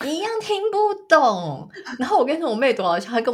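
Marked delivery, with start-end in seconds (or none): 0.1-1.7 high, slow stressed agreement; emphatic echo. Real, not acted. Agreeing with her friend about Indian accents, emphatic. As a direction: lean into every word.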